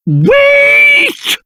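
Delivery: very high, stretched-out shout; urgent call. Acted. Stopping companions in their tracks, urgent high cry. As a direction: cry out to halt them. Calls someone to stop.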